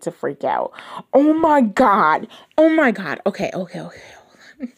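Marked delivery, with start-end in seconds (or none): 1.1-3.2 excited. Real, not acted. Reader freaking out over her childhood book, loud and excited. 3.2-4.7 whispered okays, hushed hold on. Real, not acted. Reader calming herself mid-freakout, whispering.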